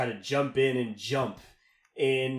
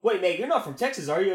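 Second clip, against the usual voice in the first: higher mock Australian accent, a rough attempt; 7 semitones higher, 4 dB louder, faster than usual. Australian guy realizing the narrator is Texan, in a mock Australian accent. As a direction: catch him out in a so-so Aussie voice. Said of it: "That's not a very good Australian accent".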